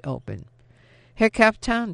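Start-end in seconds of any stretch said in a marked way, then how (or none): 1.2-1.9 called out high and loud; raised voice calling after the captain. A narrator's reading. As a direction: call to him across the yard. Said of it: "she called out".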